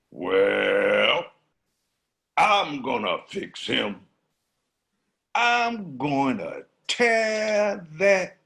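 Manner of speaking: lion swearing revenge; angry lion. Acted. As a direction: growl out a vengeful vow.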